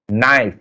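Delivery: "Knife" with no k sound at the start; silent K. Shown as a demonstration. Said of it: "You can see that K is silent".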